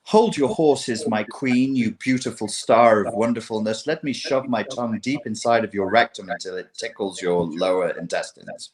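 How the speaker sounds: a hint of a syrupy seducer; lightly voiced oily charmer; imitating the TikTok guy's sweet talk; mock smooth simp. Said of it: "he comes in with".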